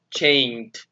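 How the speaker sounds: "Changed" ending in a T sound; final ED as T. Shown as a demonstration. Teacher shows students the ED ending, "Changed" ending in T. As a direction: say "Changed" with its ED pronounced as T. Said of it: "la pronunciamos como una T".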